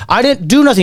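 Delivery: high-pitched imitated indignation; retold defensive whine; mock protest. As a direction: plead innocence, voice jumping up. Punched man protests in retold fight.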